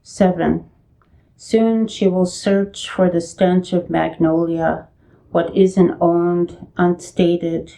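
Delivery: measured poem recital with pauses between phrases; poetry reading. Acted. Poet reading from own chapbook at a virtual reading, measured recital. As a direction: read it as verse, phrase by phrase.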